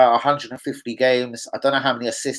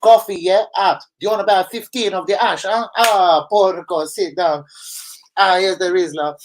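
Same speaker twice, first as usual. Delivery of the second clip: café owner welcoming in; 4 semitones higher, 3 dB louder than usual. Retold or imitated. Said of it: "They're all blazing ash like".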